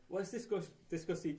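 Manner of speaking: put-on Irish lilt; mock Irish accent. Host starts the discussion as an Irishman, mock Irish accent. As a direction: attempt an Irish accent, haltingly. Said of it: "I'm doing the Irish accent".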